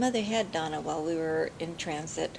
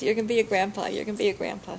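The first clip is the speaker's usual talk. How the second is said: mild retold yell; 2 semitones higher, 4 dB louder, faster than usual. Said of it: "So she yells".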